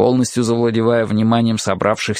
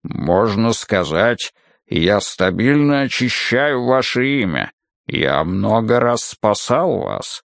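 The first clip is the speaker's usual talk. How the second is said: menacing brute; slower than usual. Acted. Muldoon's menacing character voice.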